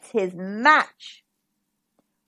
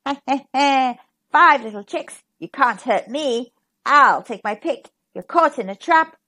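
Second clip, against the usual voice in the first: gloating fox; 4 dB louder than usual. Acted.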